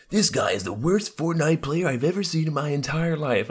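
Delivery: high, slow sneering voice; mocking troll. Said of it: "he was just like".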